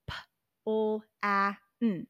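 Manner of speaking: P, O, A, N as separate sounds; segmenting plan. Shown as a demonstration. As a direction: tap out each sound of plan apart. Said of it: "Now tap the sounds".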